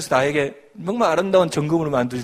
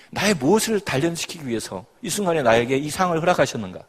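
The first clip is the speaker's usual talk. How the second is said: ordinary delivery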